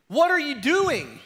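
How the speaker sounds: loud, high, slow yell; full on yelling. Retold or imitated. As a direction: stretch the shout to reach her. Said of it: "I'm still full on yelling".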